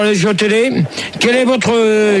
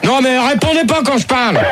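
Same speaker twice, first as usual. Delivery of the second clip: higher-pitched annoyed reprimand; irritated scolding; 4 semitones higher than usual. Real, not acted. Radio host scolding callers who talk over him, irritated. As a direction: tell them off, voice raised in pitch.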